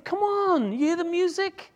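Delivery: high, loud coaxing; father coaxing son to the party. Acted. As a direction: come on, coax him in.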